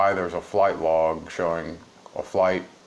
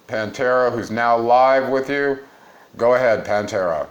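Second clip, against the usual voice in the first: hyped announcer; 5 semitones higher, 7 dB louder than usual. Acted. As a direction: hype up the live cross like a TV anchor. Host hands over to live reporter.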